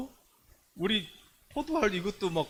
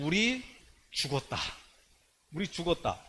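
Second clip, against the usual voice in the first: despairing defeat. Acted. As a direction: sink into a defeated, dejected quote. Acting out the spies' despair.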